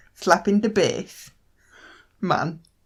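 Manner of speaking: put-on Jamaican accent impression. Asked for one more try, the speaker repeats the phrase in a jamaican accent impression. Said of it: "My proper impression attempt would be".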